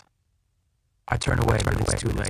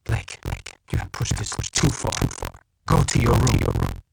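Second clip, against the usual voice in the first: trembling voice; 3 dB louder than usual. A narrator's reading. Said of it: "in a trembling voice like death".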